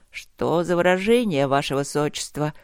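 a hint of a stern professor; lightly voiced lecturing professor; professorial tone. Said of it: "очень профессорским тоном".

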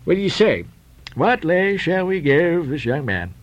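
drawn-out, insistent question; impatient captain. Acted. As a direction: press your partner for an answer. Peleg questions Bildad in story.

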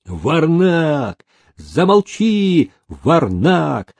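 shouting "Варнак" at the nephew; angry old man. Acted. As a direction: snap at him to shut up. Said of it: "стукнул костылём старик". (гневный окрик старика)

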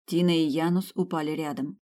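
usual speaking voice

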